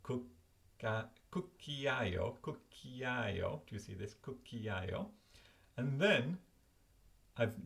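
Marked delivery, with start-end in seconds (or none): 1.3-3.6 "cucchiaio" said carefully as Italian kook-kee-EYE-oh; pronunciation demo. Shown as a demonstration. Teacher showing viewers how to pronounce the Italian, careful pronunciation demo. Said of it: "how to pronounce it". 4.2-5.1 "Cucchiaio" as Italian kook-kee-EYE-oh; pronunciation demo. Shown as a demonstration. Teacher pointing at the flashcard's spelling, pronunciation demo. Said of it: "how to pronounce it".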